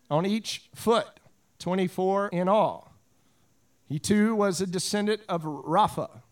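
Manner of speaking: measured read-aloud Bible narration; scripture reading. Acted. Pastor reading a battle passage to his congregation, measured read-aloud. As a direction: read the battle account out clearly, with pauses.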